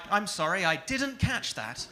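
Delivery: lightly voiced voice assistant, slow and precise; Siri voice. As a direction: answer like a polite robot assistant. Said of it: "I sound like Siri".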